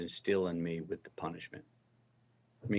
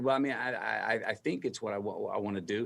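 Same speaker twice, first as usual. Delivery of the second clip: unsure, halting and trailing softer; stuttering hesitantly; 4 dB quieter than usual. Retold or imitated. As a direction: stammer it out without conviction. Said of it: "if I would have stuttered".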